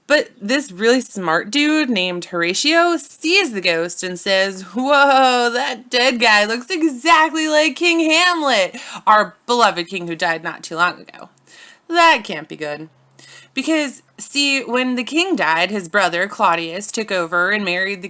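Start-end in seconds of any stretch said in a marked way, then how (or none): 4.8-12.9 Horatio's amazed voice. Acted. Horatio to the guards on seeing the ghost, awed.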